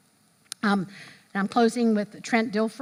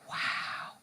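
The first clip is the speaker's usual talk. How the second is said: breathless wow; 11 dB quieter than usual. Retold or imitated. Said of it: "you go like this".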